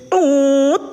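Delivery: fart noise imitation. Shown as a demonstration. Joking to viewers about his melodious fart, a toot. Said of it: "Eh, misalnya".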